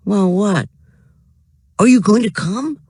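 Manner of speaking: put-on high, eager boy's voice; a kid asking keenly. A narrator's reading. Frank's voice.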